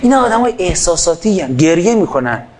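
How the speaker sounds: mocking.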